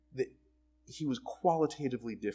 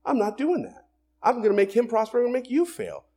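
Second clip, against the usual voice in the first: higher, louder voice of God reversing course; a hint of God changing his mind; lightly voiced God declaring; God's voice; 10 semitones higher, 7 dB louder than usual. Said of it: "God sees that and says".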